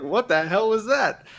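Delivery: high, loud, baffled outburst; exasperated disbelief. Retold or imitated. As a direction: re-enact shock at a botched shot. Acts out reaction to botched swing.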